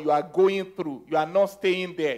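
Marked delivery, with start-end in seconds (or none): 0.0-1.0 "going through" given deliberate weight; emphatic GOING THROUGH. Real, not acted. Preacher stressing a point to the congregation, emphatic "going through". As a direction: lean on the words "going through". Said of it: "I emphasize that word".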